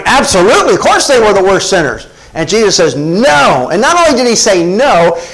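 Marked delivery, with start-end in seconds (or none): 0.0-2.1 hearty agreement. Acted. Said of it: "should have been answered with a hearty". 2.9-3.7 "No" as a firm, absolute negation; emphatic no. Acted. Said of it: "This is the emphatic no".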